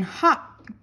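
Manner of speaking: high, sharp called command; shouted. A narrator's reading. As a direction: yell the turn to the lead dog. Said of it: "I shouted".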